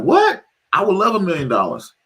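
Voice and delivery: a sudden high "What?", then eager; mock surprise. Friend offered a million dollars, mock surprised yelp. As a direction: play the stunned, delighted seller.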